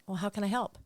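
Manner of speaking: softly spoken, unruffled offer of help; very calm. Retold or imitated. Agent answering an upset caller, very calmly. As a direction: keep it soft and composed. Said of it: "I just look at 'em very calmly".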